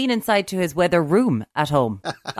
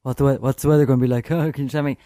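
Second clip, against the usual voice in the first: pestering public; 4 semitones lower, much faster than usual. Retold or imitated. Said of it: "how many times they're asked".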